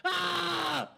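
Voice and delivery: very high, thin, soft panicked squeal; dad imitating his daughter's panicked pleading; imitated screaming daughter. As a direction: mimic a terrified teenager begging. I'm yelling out louder.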